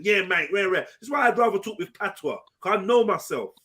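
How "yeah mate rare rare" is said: lightly imitated Cockney; throwaway Cockney imitation; mock Cockney accent. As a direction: put on a hint of Cockney to mock it. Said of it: "I don't talk with a Cockney accent".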